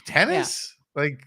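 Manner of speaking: high, loud disbelieving squeal; mock shock at the news; incredulous chat reaction. Chat gasping over Borat playing tennis, high incredulous squeal.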